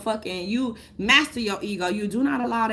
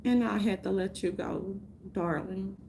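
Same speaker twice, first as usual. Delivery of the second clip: mock tender farewell; 2 semitones lower, 6 dB quieter than usual. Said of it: "And I'm like".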